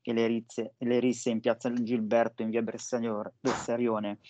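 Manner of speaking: lisping slightly through braces; words slurred by dental braces; talking with braces. Real, not acted. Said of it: "ho l'apparecchio ai denti". (parla con l'apparecchio ai denti)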